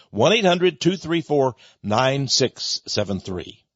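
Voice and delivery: phone number read out slowly, digit by digit; slow the digits down so listeners can write them; slow repeat. Shown as a demonstration. Radio host repeating the number slowly for listeners.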